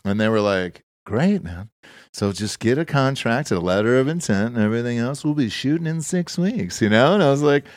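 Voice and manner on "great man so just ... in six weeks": laid-back financier. Retold or imitated. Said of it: "he talked like that".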